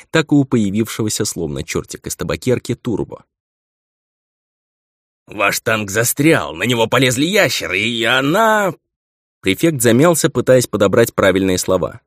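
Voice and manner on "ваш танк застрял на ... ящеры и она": slow, faltering report; lightly voiced nervous subordinate; hesitant young prefect.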